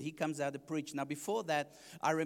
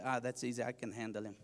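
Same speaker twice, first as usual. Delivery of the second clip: cocky; 6 semitones lower, 4 dB quieter, faster than usual. Retold or imitated. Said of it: "I kinda sized him up".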